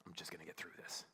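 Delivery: low, very soft repetition; sober realization. Retold or imitated. Husband realizing what he said for months, quiet and sober. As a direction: let it drop to a quiet, reflective murmur.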